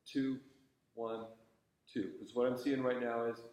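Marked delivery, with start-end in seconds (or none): 0.1-2.1 even, unhurried count; steady counting. Shown as a demonstration. Conductor showing a student steady tempo, evenly counted. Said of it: "just think of that slow, steady tempo".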